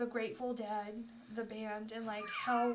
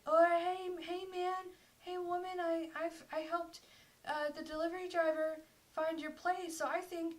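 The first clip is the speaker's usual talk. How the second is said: put-on drunk guy; 6 semitones higher than usual. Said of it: "and he's like".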